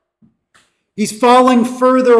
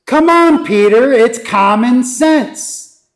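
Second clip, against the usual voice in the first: higher, slower taunt of come on; mocking accusation; 5 semitones higher, slower than usual. Bystanders taunting Peter by the fire, mock scoffing. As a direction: needle Peter that it's obvious.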